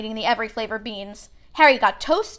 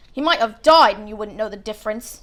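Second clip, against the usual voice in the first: disgusted; 4 dB louder than usual. Acted. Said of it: "said Ron in disgust".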